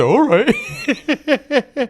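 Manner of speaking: high, laughing mimic of his okay; mocking imitation. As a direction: parrot him back mockingly. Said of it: "He said".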